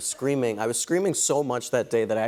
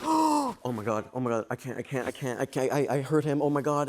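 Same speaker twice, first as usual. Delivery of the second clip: panicked. Retold or imitated. Panicked after hurting costar.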